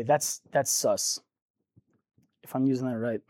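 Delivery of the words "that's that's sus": put-on teen slang. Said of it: "Or as the kids say".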